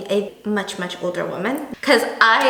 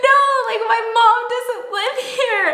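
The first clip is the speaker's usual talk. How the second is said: high, laughing protest; correcting the neighbor, embarrassed and laughing; flustered laughing denial; 11 semitones higher than usual. Retold or imitated. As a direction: laugh it off in a rush. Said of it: "I was like".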